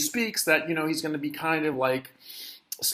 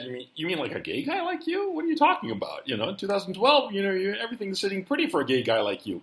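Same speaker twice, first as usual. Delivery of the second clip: incredulous inner thought; 4 semitones higher, 4 dB quieter, faster than usual. Retold or imitated. Incredulous unspoken thought about gay guy.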